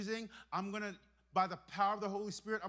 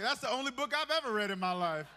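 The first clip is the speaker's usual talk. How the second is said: loud joking quote; 7 dB louder than usual. Retold or imitated. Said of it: "Some of you guys are like".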